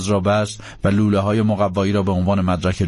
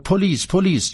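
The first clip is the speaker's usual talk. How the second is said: raised, high-pitched warning call; alarmed cry; 10 semitones higher than usual. Acted. Imabelle warning the others of police, alarmed cry. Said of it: "ایمابل فریاد زد".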